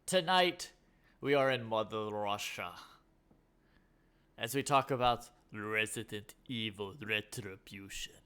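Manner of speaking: lightly put-on Russian accent; hint of a bad Russian accent. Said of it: "in my terrible Russian accent".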